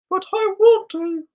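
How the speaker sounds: high, slow whiny plea; drawn-out childish begging; a light pouty fantasy voice. Pretend. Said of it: "Why is that my fantasy voice?".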